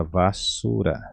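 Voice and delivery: "basura" slowly, va-SU-ra, softly; Spanish pronunciation demo. Shown as a demonstration. Teacher giving the word for rubbish, slow pronunciation of "basura". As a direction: sound out "basura" with a long u. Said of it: "Vou deixar aqui a pronúncia".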